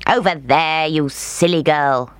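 mild snarled insult; snarling. Acted. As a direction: sneer it at the girl. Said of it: "snarled the witch".

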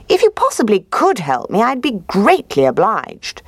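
high, smooth sly fox. Acted. Fox voiced in story.

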